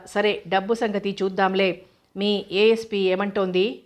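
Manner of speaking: slow, lightly mocking question; mildly sarcastic. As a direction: drag it out with a bit of sarcasm. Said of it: "అన్నాడు కాస్త వ్యంగ్యంగా". (కాస్త వ్యంగ్యంగా, నెమ్మదిగా)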